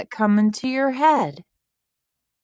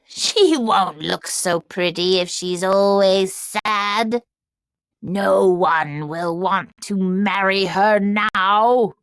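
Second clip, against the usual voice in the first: cackling witch. Acted. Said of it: "the witch cackled".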